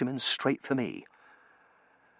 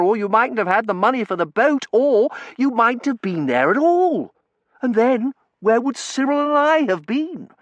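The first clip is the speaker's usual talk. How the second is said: put-on higher, louder chatty young man; cheerful young Terence; 11 semitones higher, 6 dB louder than usual. A narrator's reading. Terence chattering to the narrator on the street, cheerful young voice. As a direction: rattle on cheerfully, full of beans.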